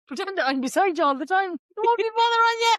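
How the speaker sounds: high, loud laughing tease. Real, not acted. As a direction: tease through giggles. Joking through laughter.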